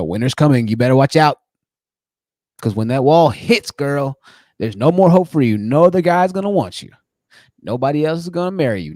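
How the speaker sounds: mocking the guys who warn women their time runs out; mock doomsayer. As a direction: play the gloating prophet of the wall, half-joking. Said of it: "they try to doom you".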